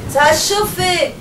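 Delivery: high, loud commanding calls; captain giving orders. Acted. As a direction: bark orders across the storm. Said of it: "s'écrie-t-il".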